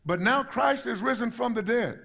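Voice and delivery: "But now Christ is risen from the dead" declared firmly, lifted above the talk around it; emphatic scripture reading. Retold or imitated. Preacher reading verse twenty to the church, "But now Christ is risen from the dead" said emphatically. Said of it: "says it in what we call emphatically".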